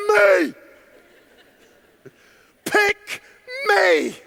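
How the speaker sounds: high, loud squeal to be picked; mock little kid desperately pleading to be chosen; eager young child. Child begging to be picked from the room, eager high squeal. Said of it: "every hand in the room goes".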